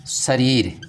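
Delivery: whispered शरीर, no voice. Shown as a demonstration. Breaks word into parts.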